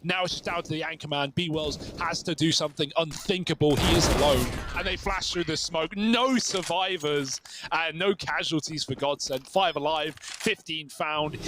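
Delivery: excited esports play-by-play; live play-by-play. Acted. Caster calling the live round for viewers, play-by-play. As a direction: call the round as it happens.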